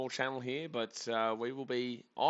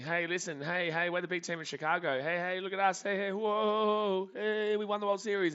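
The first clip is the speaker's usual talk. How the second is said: much higher, needy mock fan voice; whiny White Sox fan; 7 semitones higher than usual. Mocking White Sox fans begging for attention, high needy voice. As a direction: beg for attention like a pestering kid brother. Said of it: "White Sox fans ... saying".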